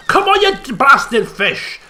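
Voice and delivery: slow, drawn-out mock challenge to the fish; hammed-up taunt. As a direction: ham it up, daring the fish, slowly.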